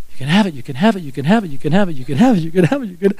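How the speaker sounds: looping echo, same lilt each time; words ringing in ears. Retold or imitated. Dad's words looping in son's head, ringing. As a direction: repeat it like a singsong echo in the head. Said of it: "ringing in my ears".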